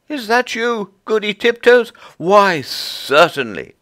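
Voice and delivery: very high, cheerful reply; high squirrel reply; Timmy the squirrel. Acted. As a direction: answer up the hole pleased. Timmy answers from below.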